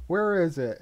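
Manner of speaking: flustered, searching aloud; frantic wizard. Retold or imitated. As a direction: call out like a frazzled wizard. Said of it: "saying things like".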